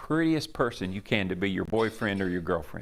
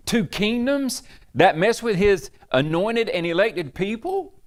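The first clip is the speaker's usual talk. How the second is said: high, loud scolding, voice raised; a pagan king chewing out the man of God; 8 semitones higher, 4 dB louder than usual. Acted. King scolding Isaac, high, loud rebuke. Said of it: "scolds him".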